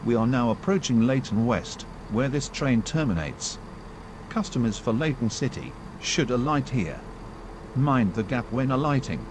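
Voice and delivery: choppy automated station announcement; recorded train PA, words pieced together; spliced together words. Acted.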